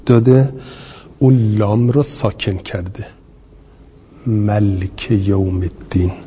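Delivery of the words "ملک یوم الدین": ملک said malk, the lam silent-voweled, two syllables; lam with sukun. Shown as a demonstration. Teacher demonstrating Rabia's reading ملک with sukun on lam. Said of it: "به تسکین لام".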